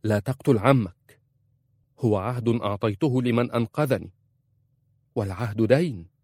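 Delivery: wife firmly forbids her husband the fight; decisive. A narrator's reading. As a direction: plant yourself and forbid it. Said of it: "وقالت في حسم".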